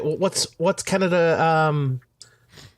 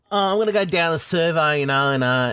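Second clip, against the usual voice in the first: broad bogan Australian voice; bogan Australian accent. Acted. Australian showing a friend how bogans talk, broad Aussie. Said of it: "sound like a bogan".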